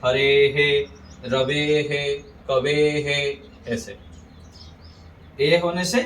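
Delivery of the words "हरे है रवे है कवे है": हरे है, रवे है, कवे है with long "ay" then "hay"; echoed e vowel. Shown as a demonstration. Teacher models the rule, हरे है, रवे है, कवे है ending "ay-hay". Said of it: "ए का उच्चारण होगा".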